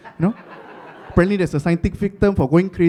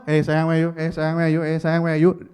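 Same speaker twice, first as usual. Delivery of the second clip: loveless tone; 4 semitones lower than usual. Retold or imitated. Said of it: "the tone of no love in my voice".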